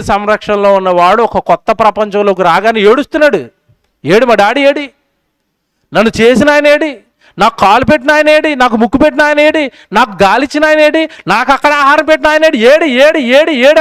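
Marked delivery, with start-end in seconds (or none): 4.0-13.8 put-on high, wailing baby asking for its maker; crying baby's plea. Newborn baby wailing for God, in a high plea. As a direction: plead like a lost newborn. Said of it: "అని ఏడుతుంటే".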